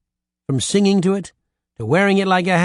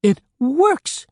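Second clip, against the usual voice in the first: much higher, ecstatic screaming; excited scream; 11 semitones higher than usual. A narrator's reading. Cannibals rejoicing that the mirror works, excited scream. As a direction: scream out the triumph. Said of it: "the others screamed".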